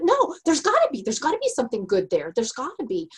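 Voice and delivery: high protest that settles into quick insistence; insistent optimist. Retold or imitated. Wife retelling her protest to husband, insistent. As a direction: act out pleading for the good in people. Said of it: "And I'm like".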